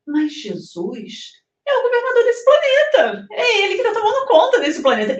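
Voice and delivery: high, loud, emphatic retelling; emphatic retold reply. Explaining to the American man, emphatic and rising. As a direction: press the point home, voice rising. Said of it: "Eu falei".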